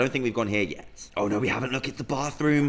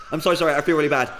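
a louder, more pleading I'm so sorry; louder apology; 2 semitones higher, 4 dB louder, much faster than usual. Real, not acted. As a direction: push the apology out loud. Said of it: "he's really crying".

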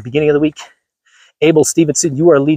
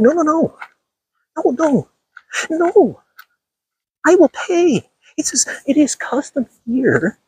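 put-on high insistent girlish voice; a sweet, firm refusal up high; imitating the girl; 11 semitones higher than usual. The girl refuses to let him pay, high and insistent. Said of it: "she said".

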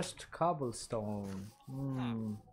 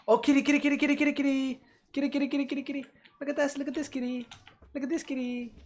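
very high cooing call; 10 semitones higher, much faster than usual. Real, not acted. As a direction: coo at the cat in a tiny high voice.

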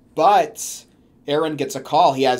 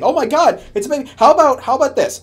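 mock excitement; 10 semitones higher, 8 dB louder, faster than usual. Real, not acted. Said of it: "This should be exciting".

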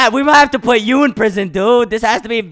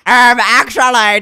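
nerd voice; 3 semitones higher, 4 dB louder, slower than usual. Pretend. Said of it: "nerd glasses on".

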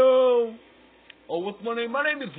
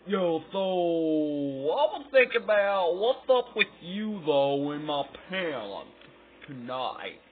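character voice thing; slower than usual. Acted. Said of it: "my voice thing I do".

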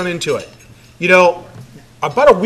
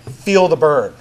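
laughing slogan; slower than usual. Acted. Jokey slogan pitched to the crowd.

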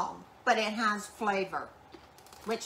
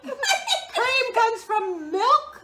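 high, slow, laughing disbelief; 14 semitones higher, 8 dB louder, much slower than usual. Real, not acted. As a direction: ask it through a laugh.

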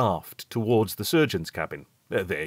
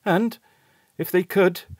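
stoutly insistent doctor; stout answer; 8 semitones higher than usual. A narrator's reading. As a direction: plant your feet and insist. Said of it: "he answered stoutly".

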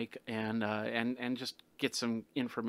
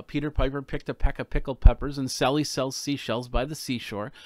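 tongue twister demo; 6 dB louder than usual. Shown as a demonstration. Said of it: "I'll do a".

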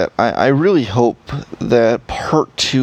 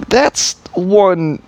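awed aside; 6 semitones higher, much slower than usual. Acted. Aside on the brutal contest.

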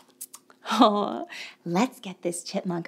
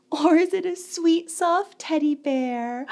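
sweet teddy voice. Acted. Sweet contrast to growl.

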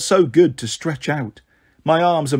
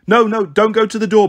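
higher and louder, urgent warning; urgent shout; 6 semitones higher, 4 dB louder than usual. A narrator's reading. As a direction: stop him before he opens the door. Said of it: "I shouted".

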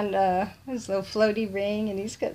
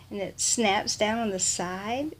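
ordinary talk

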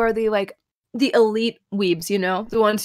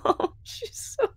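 cooing whisper; 10 semitones higher, 7 dB quieter, slower than usual. Real, not acted. Cooing at cute thing.

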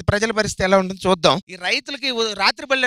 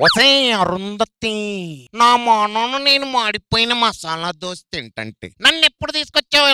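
very slow comic drawl; MS Narayana. Acted. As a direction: drag the words out like a tipsy comic. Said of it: "MS Narayana గారు ... ఆయన స్టైల్లో".

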